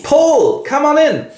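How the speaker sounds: a high call through the door; voicing Seth. Seth welcomes Paul into her home, high call.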